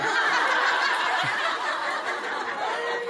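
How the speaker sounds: 높고 숨 섞인 웃음; 자기 농담에 터진 웃음; high breathy laugh. Real, not acted. (농담 뒤에 높게 터지는 웃음)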